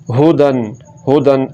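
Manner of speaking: हुदन with a short, unstretched हु; short vowel. Shown as a demonstration. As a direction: keep the u in हुदन brief. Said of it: "हुदन नहीं पढ़ना".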